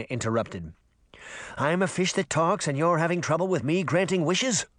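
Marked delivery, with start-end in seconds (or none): 1.6-4.7 a touch of sarcasm in a fish voice; mildly exasperated talking fish, pitched up; slightly higher, scoffing fish; lightly voiced incredulous fish. Fish character speaks.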